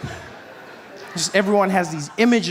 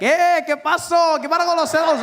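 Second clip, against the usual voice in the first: Latino guy greeting; 10 semitones higher than usual. Retold or imitated. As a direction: call out like a familiar friend. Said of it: "they're like".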